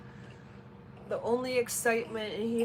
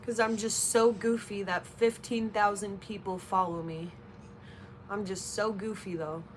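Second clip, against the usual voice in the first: sarcastic. Real, not acted. Sarcastic reply to a troll.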